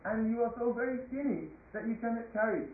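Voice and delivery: lightly voiced royal sarcasm; sarcastic king. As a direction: needle the weakling with feigned sympathy. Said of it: "He was being very sarcastic".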